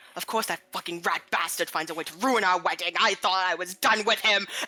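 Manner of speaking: angry, fuming muttering under the breath. Acting out a game character during a fight, muttering to themselves. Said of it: "they're just muttering to themselves".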